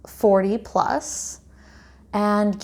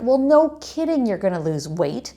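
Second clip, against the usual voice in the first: mildly exasperated, raised pitch; a touch of indignant disbelief, pitched up; frustrated retort; 4 semitones higher than usual. Retold or imitated. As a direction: retell your frustration as a pointed objection. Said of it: "it really frustrated me".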